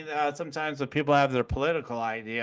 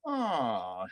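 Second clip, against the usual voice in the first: drawn-out falling "oh"; inward curious "oh"; 5 semitones lower, 4 dB quieter than usual. Shown as a demonstration. Man showing the inward reaction, curious "oh". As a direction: let a curious "oh" slide down. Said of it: "inside even, you just go".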